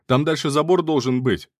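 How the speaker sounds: loud, high shouted tip; calling out. A narrator's reading. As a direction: yell it across the field. Shouting advice across a chase.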